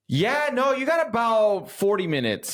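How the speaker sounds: high-pitched mock hiker calling out; passing hiker. Voices hiker coming down the trail.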